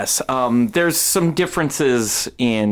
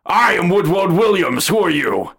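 higher-pitched, declaiming little spirit; little woodland spirit; 7 semitones higher, 4 dB louder than usual. Acted. Woodland spirit greets climbers coming down the rope, in a high creature voice. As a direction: announce yourself as a small woodland creature. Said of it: "another one of those little woodland spirits".

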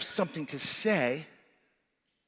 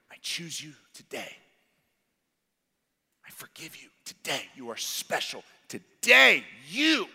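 tender whisper-like voice; 4 semitones lower than usual. Acted. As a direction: say it like a gentle promise. Voicing Jesus whispering.

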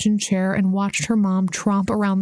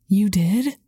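voice rising. A narrator's reading. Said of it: "Messenger's voice rose".

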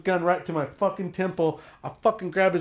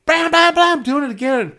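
high, loud bam bam bam; loud bangs; 11 semitones higher, 8 dB louder than usual. Retold or imitated. Tattooer mimicking the drunk slamming the wall, loud. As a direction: pound out the bangs.

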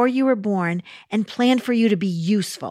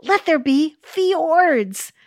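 slow, higher proclaiming Father voice; God proclaiming; 6 semitones higher, 3 dB louder, slower than usual. Pretend. Father showing his son, a slow grand proclamation. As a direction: draw out a grand creation command. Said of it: "the father thought for a minute and he said".

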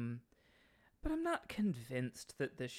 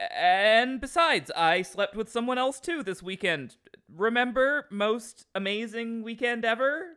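quickly; 8 semitones higher, 9 dB louder than usual. A narrator's reading. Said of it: "So I quickly say".

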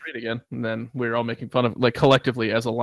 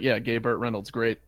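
snide; 3 dB quieter than usual. Retold or imitated. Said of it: "I said it like an asshole".

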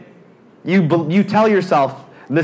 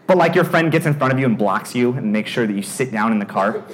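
ordinary talk, nothing marked

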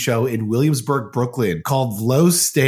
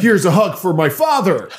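military mode; 6 semitones higher, 4 dB louder than usual. Acted. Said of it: "he's in military mode".

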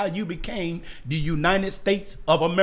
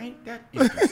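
amused sarcasm; 6 semitones higher, much faster than usual. Retold or imitated. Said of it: "I said".

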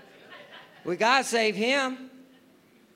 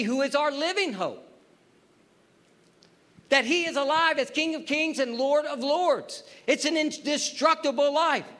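raised-pitch pulpit proclamation; emphatic preaching; 6 semitones higher than usual. Acted. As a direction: proclaim it to the congregation with conviction.

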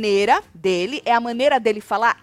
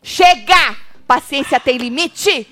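loud, higher cry, then slow and firm; fed-up outburst; 3 semitones higher, 8 dB louder, much slower than usual. Retold or imitated. Retelling Lucas losing his patience, loud fed-up outburst. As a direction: burst out like patience just ran out. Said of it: "disse menino Lucas".

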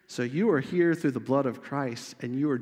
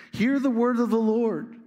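raised, louder scripture reading; prophetic proclamation; 7 semitones higher, 5 dB louder than usual. Acted. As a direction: proclaim it high and loud like a prophet.

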